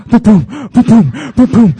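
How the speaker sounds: loud, rising boom boom; excited heartbeat. Retold or imitated. Guy bragging to friends about a girl, excited. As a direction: pound out the heartbeat.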